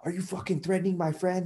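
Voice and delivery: high-pitched imitation of a riled-up friend; retold confrontation, pitched well up without shouting; mock threatening. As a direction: act out a buddy squaring up for a fight. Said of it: "he's, like, this big ass fool".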